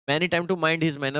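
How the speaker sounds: slow reading aloud. Shown as a demonstration. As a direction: read the sentence slowly, word by word. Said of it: "many ए गलत है".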